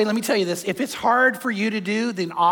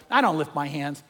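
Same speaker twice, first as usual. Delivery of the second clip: low, soft imitated refusal; reluctant guy; 6 semitones lower, 3 dB quieter than usual. Guy answering Robert Morris, quietly reluctant. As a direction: imitate a stubborn man, kept low. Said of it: "the guy goes".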